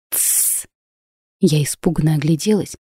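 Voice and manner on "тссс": sharp frightened shush; unvoiced tsss of alarm; hushing whisper. A narrator's reading. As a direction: hush her urgently. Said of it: "прошептала".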